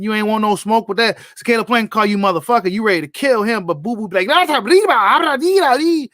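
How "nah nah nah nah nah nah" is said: put-on high, slow, taunting Mexican-accent nah; mock him with a sing-song Mexican accent. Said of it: "doing a little Mexican accent".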